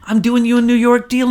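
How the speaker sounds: high, loud, emphatic pitch; hammed-up insistence; insistent deal-maker. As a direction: act out selling the deal hard.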